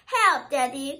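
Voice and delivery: mild cry for help. Acted. Stuck squirrel calling Daddy, mild cry. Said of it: "cried little squirrel".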